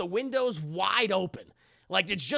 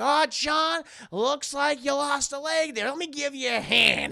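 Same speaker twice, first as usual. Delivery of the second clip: raised, teasing villain voice; mock taunting; 6 semitones higher than usual. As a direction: gloat over his pain with false concern. Chucky taunts injured John.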